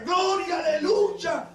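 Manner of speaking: a high joyful shout; shouted praise. Retold or imitated. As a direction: cry it out in praise. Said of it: "con una mano decía". (grito alegre de alabanza)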